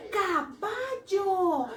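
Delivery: put-on teacher stretching caballo for kids; slow, drawn-out caballo. Shown as a demonstration. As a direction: draw out caballo for the children. Teacher naming the picture.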